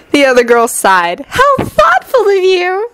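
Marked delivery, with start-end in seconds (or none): 1.3-2.9 sincere. A narrator's reading. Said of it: "they declared sincerely".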